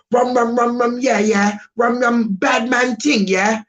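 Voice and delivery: London slang accent, hammed-up; a UK version of a rapper. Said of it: "if he goes to the U K".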